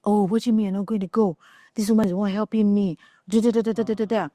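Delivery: mildly voiced angry rant of a father; upset dad. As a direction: imitate dad's quick grumbling, tailing into da-da-da. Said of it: "my dad gets upset".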